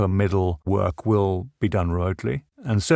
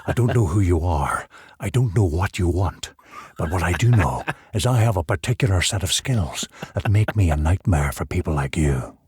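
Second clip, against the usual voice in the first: low, measured Taken threat speech; deep gravelly movie menace; Liam Neeson impression; 3 semitones lower than usual. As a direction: growl the famous threat like Neeson. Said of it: "he still has that voice there".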